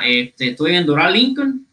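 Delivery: connection dropping out mid-sentence; radio breaking up. Real, not acted. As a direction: voice cutting out over a bad line. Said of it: "Espérate, no te escucho bien".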